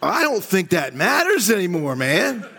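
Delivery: laughing disbelief. Retold or imitated. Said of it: "You'd be like".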